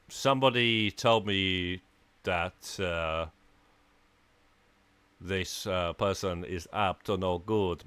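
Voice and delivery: put-on a light, half-hearted German accent drifting toward Italian; attempted German accent. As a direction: try a German accent and let it slip Italian. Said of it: "it's supposed to be a German accent".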